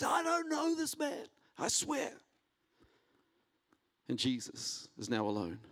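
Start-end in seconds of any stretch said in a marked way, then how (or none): 0.0-2.1 high, desperate cry of a cornered man; frantic denial. Retold or imitated. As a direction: blurt it out high and panicked, like Peter at the fire. Peter denies Jesus at trial.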